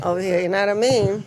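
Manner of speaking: quick, laughing imitation of a Jersey accent; lightly mock the Long Island accent; playful New York accent, said fast. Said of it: "kind of accent over here".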